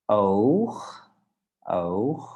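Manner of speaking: oog with a light G at the end; soft final G. Shown as a demonstration. Teacher models Dutch oog for learners, soft final G. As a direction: say oog, easing the G so it barely scrapes the throat. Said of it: "the accent disappears a bit".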